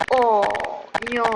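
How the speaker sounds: cartoon-scared oh no; mock panic. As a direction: yelp it like a fleeing victim. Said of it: "and he's like".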